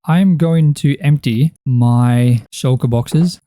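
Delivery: slow, drawn-out southern accent. Real, not acted. Gamer slipping unintentionally into a slow southern accent. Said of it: "talking in a southern accent".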